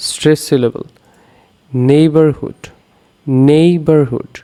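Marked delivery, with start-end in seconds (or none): 1.7-2.6 নেইবারহুড with weight on নেই; stress on first syllable. Shown as a demonstration. Teacher demonstrating stressed syllables, নেইবারহুড stressed on নেই. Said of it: "নেই হচ্ছে". 3.5-4.3 নেইবারহুড with weight on নেই; stress on first syllable. Shown as a demonstration. Teacher demonstrating stressed syllables, নেইবারহুড stressed on নেই. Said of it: "নেই হচ্ছে".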